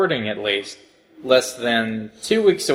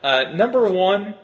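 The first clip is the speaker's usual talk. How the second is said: John Henry Eden. Acted. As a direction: address them like an ominous leader. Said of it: "You are totally sounding like John Henry Eden right now".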